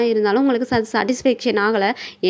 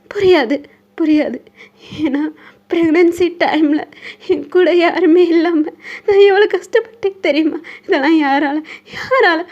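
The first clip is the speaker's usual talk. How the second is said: hurt and upset; 5 semitones higher, 4 dB louder, slower than usual. Acted. Wife's hurt outburst.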